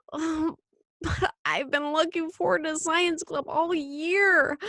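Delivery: put-on high, upset child's plea; rising voice. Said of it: "Michael's voice rose".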